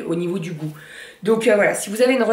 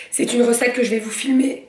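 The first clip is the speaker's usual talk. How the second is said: hiccuping; 4 semitones higher than usual. Real, not acted. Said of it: "pardon, j'ai le hoquet".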